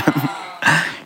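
a short, high, sheepish laugh; embarrassed laugh. Real, not acted. Embarrassed laugh over shabby clothes. (멋쩍은 웃음)

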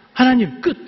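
high, loud cry of "enough"; a burst of exasperation, done; fed-up outburst. Retold or imitated. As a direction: throw up your hands and shout it to God. Moses crying out to God, quitting.

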